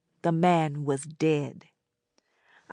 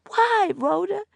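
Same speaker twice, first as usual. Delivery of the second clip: put-on much higher girl's voice, aghast; gasping question. A narrator's reading. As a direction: ask in horrified disbelief. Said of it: "I gasped".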